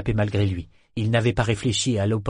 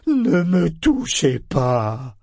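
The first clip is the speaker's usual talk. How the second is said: cri aigu et lent de panique; ordre affolé; 5 semitones higher, 5 dB louder, much slower than usual. A narrator's reading. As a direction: repousser tout le monde, paniqué. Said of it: "C'était un ordre affolé". (ordre crié, affolé)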